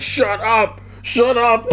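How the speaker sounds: high, exasperated "Shut up!" snapped out; mock angry yell. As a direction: imitate a friend losing it. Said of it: "He just got so mad".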